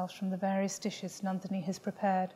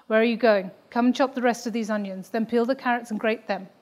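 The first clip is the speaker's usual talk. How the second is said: louder commanding mother calling her back; a hint of a stern mother barking orders; bossy mother; 2 semitones higher, 8 dB louder than usual. Mother calling her daughter back to chop onions, louder and commanding.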